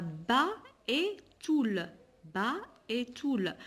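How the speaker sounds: "ba" and "toul" set apart around "et"; syllable by syllable. Shown as a demonstration. Teacher counting two syllables for pupils, syllable by syllable. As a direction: separate "ba" from "toul", each a clear beat. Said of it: "on a deux syllabes".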